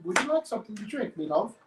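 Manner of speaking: put-on amateur British accent at normal pitch; casual mock-British offer; attempted British accent. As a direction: try a British accent, unhurried. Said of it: "can I do a British accent?".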